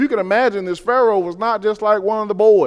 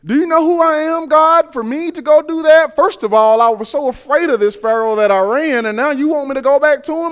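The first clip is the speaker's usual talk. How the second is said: incredulous Moses; 7 semitones higher, 4 dB louder than usual. Retold or imitated. Moses protesting to God.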